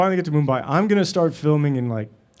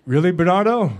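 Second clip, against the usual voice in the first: higher, louder incredulous question; mock disbelief; 6 semitones higher, 6 dB louder than usual. Actor reacting to director's late change, acted disbelief. Acting his surprise at the director.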